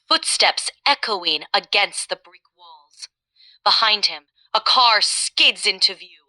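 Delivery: action-movie narration. Shown as a demonstration. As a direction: narrate a chase scene with pauses for suspense. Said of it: "narrate a scene from an action movie".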